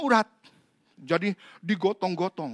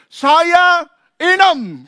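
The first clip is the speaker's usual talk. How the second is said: very slow, high, loud spirit voice with a laugh; possessed woman's voice; 10 semitones higher, 15 dB louder, much slower than usual. Retold or imitated. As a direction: answer as the spirit Inem. (suara roh Inem yang lambat dan melengking)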